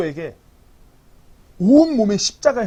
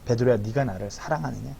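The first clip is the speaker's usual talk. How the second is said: tender question; 6 semitones lower, 7 dB quieter than usual. Acted. Jesus asks Peter, low and soft.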